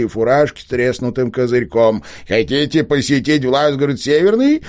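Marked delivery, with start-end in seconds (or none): 2.3-4.6 1 старикашка. A narrator's reading. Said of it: "спросил он у вздрогнувшей".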